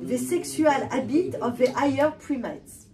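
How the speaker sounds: slow English quote with a French accent. Real, not acted. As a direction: read the English phrase carefully in a French accent. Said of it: "pardon pour mon accent".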